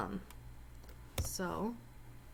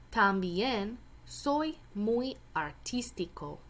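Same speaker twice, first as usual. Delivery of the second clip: careful, clear reading of a short Spanish passage; reading a Spanish text aloud. Acted. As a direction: read it out for the class, word by word. Reads Spanish passage as Martín.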